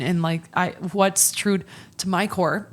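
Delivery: talking through the hiccups; hiccupy speech between sips. Real, not acted. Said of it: "excuse me, I have the hiccups".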